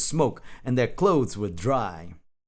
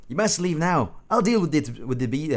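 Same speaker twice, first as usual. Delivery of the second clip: high-pitched urgent hero voice; struggling attempt at a dramatic hero; Rufang; 5 semitones higher than usual. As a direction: order them out in a raised hero voice. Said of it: "I just can't do Rufung's voice".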